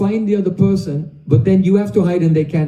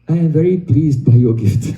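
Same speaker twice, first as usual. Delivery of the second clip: laughing; 3 semitones lower than usual. Acted. Krishna thanks friend, laughing.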